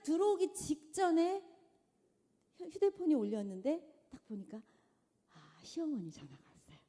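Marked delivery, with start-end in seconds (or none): none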